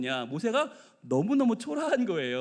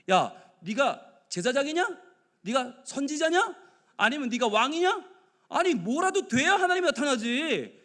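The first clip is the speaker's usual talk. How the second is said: higher-pitched, scoffing questions; incredulous challenge; 4 semitones higher than usual. Acted. Preacher voices doubters mocking an old shepherd's claim, incredulous. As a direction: challenge him as a nobody with mock disbelief.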